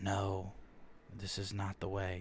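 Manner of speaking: soft, hushed inner-voice half-whisper. A storyteller voices the inner voice heard while praying, half-whispering voice. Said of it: "just kind of whisper like".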